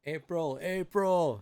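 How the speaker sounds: mild shout, second call stronger; shouting her name. A narrator's reading. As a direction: call out the name, holding back a little. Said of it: "So he's shouting".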